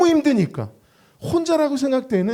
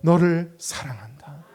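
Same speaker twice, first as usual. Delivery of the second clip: voice of God. Acted. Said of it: "주님 말씀하십니다".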